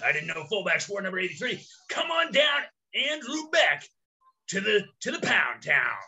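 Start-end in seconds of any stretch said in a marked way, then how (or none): 1.9-6.0 game show host. Pretend. Game show announcer call.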